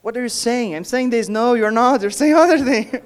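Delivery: an exasperated coach correcting pronunciation, building to a laugh; imitating the director. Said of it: "And she would say".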